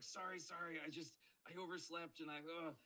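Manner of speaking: high, stammering mock apology; flustered apology. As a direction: apologize meekly to the professor. Acts out apologizing to professor.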